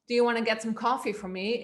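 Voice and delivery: quick question in natural low register. Shown as a demonstration. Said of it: "if I speak lower and I say".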